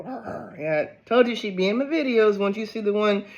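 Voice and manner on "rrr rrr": pet growl imitation. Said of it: "You hear it go".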